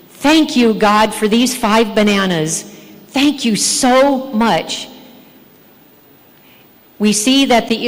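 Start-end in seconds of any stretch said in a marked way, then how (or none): 0.1-4.9 mock gratitude. Acted grateful reply, contrasted with complaint.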